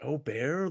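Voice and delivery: "Aubert" opening on an O sound, G silent. Shown as a demonstration. Podcaster doubting the proper name, "Aubert" as oh-BEAR. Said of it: "the A being the O".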